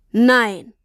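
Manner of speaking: a father realizing in shock; exclamation. A narrator's reading. Papa exclaims Nein as he understands.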